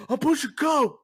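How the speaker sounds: sudden high, loud outburst; imitated yell. Stranger stocking two liters to a shopper, imitated yell. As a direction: holler it in dead earnest like the stranger. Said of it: "he literally yells".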